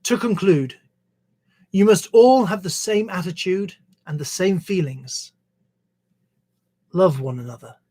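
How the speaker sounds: measured reading aloud of a verse; scripture reading. Acted. Reader sharing Jesus's words from the Bible, measured scripture reading. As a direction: read it out in phrases, pausing between them.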